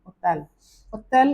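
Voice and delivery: ओतल with silent h; French hôtel. Shown as a demonstration. Teacher models ओतल, dropping the h. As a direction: say ओतल, no h at start. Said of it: "French में ओतल बोलते".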